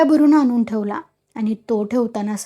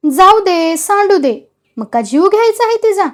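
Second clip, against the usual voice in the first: put-on higher, pleading old mother calming her son; coaxing tone; 7 semitones higher, 5 dB louder than usual. A narrator's reading. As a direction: talk him down gently but urgently. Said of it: "समजावणीच्या स्वरात म्हणाली". (समजावणीच्या स्वरात)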